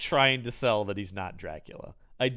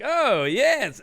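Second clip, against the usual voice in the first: higher-pitched mock Dracula accent; imitated odd accent; 10 semitones higher, 4 dB louder than usual. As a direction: ham up an unplaceable foreign accent. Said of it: "What is this accent he's doing?".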